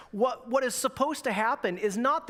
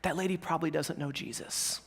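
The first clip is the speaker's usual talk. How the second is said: softened, voiced mock whisper; imitated whisper; 4 semitones lower, 6 dB quieter than usual. Mother consoling her little daughter, mock whisper. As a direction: confide it softly as an imitated aside. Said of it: "she whispered to her little daughter".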